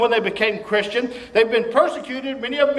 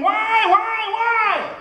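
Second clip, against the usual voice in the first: much higher, mocking cry of why; mock scream; 10 semitones higher, much slower than usual. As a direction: whine the question up high. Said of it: "Don't start screaming".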